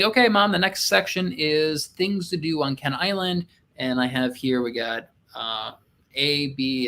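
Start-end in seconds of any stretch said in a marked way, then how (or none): 0.0-3.5 calling instructions to Mom; directing Mom. Retold or imitated. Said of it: "So just be like".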